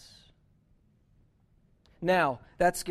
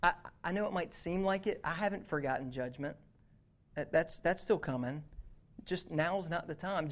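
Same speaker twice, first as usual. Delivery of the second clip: gentle reassurance. Retold or imitated. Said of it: "gently affirms him".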